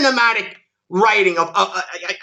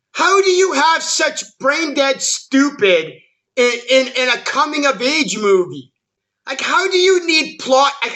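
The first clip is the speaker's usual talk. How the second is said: exasperated rant; 2 semitones higher than usual. Real, not acted. Ranting at the filmmaker.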